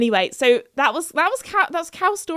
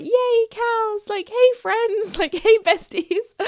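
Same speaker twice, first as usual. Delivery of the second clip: high, giddy hello breaking into laughs; excited greeting; 10 semitones higher, slower than usual. Retold or imitated. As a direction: greet the cows like best mates. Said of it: "I was so excited".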